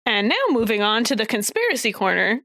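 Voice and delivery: lightly voiced host announcement; a hint of a show host's intro; Jamie. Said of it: "That's my Jamie impression".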